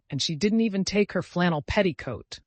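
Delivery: high, loud plaintive wail; lamenting. A narrator's reading. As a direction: bemoan it fretfully. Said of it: "lamented Cousin Stickles".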